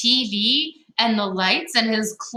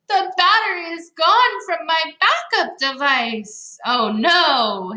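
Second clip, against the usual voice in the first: put-on panicked boy; 8 semitones higher than usual. Charlie panics over missing battery.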